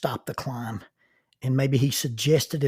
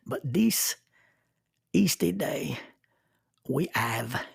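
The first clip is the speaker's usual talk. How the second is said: hushed, breathy whisper of the motto; playful whisper; slower than usual. Shown as a demonstration. Host savoring the motto for listeners, whispered. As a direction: whisper it like a secret. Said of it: "more fun when you say it with a French accent".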